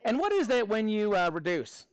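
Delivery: put-on Australian accent; Aussie accent. Maths teacher asking students for help, put-on Aussie accent. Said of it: "we'll do this in an Aussie accent".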